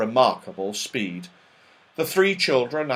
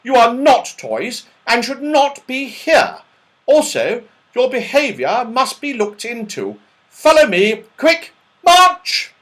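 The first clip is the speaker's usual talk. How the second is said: loud, high barked orders ending in a shout; march them off like a strict captain; commanding officer; 10 semitones higher, 7 dB louder than usual. A narrator's reading. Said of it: "in a commanding voice".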